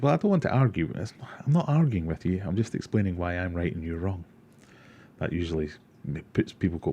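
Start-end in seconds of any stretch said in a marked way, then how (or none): 0.0-4.2 smug retort. Retold or imitated. Streamer quoting a favourite comeback, mock smug. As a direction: play the know-it-all explaining calmly. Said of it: "my personal favourite says".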